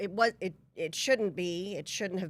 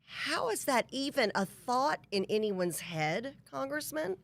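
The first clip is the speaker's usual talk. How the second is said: incredulous; 6 semitones higher than usual. Real, not acted. Host reacts in disbelief.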